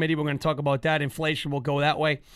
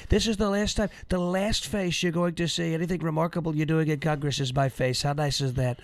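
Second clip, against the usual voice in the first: mock Trump voice. Host mocking Liz Cheney in a lightly voiced Trump taunt. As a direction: gloat at her like a sneering ex-president. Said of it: "'cause Liz Cheney got fired".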